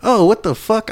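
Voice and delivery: high-pitched, stunned outburst; real astonishment. Real, not acted. Co-host finding out he had the name wrong, astonished. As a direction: blurt it out high in disbelief.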